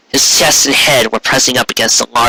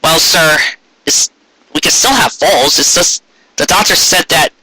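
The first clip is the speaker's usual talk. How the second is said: stammering; 4 semitones higher than usual. Acted. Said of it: "Carrot stammered".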